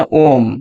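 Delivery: ओम drawn out to triple length; ओम stretched like a pluta vowel; prolonged Om. Shown as a demonstration. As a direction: chant ओम long and held. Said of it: "तीन गुना समय लगता है".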